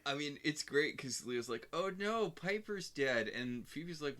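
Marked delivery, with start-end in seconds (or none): 1.7-3.3 mock dismay. Leo's exaggerated quote.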